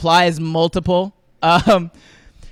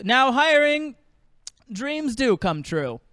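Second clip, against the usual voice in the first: mock slogan read; 4 semitones higher, 3 dB quieter, slower than usual. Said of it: "the bottom of the receipt will say".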